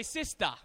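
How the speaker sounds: "sister" as sistah, no final R; island pronunciation. Shown as a demonstration. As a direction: model sister with an open AH ending. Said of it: "So guys say sister".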